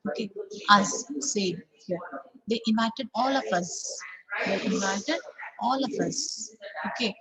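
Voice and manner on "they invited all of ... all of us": "us" said full at the end; strong us. Shown as a demonstration. Teacher modelling strong "us". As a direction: keep final "us" strong. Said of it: "So here it is a strong".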